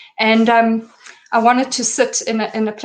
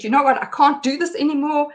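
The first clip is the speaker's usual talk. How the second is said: frantic babbling; 5 semitones higher than usual. Retold or imitated. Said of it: "I sounded like a mad person".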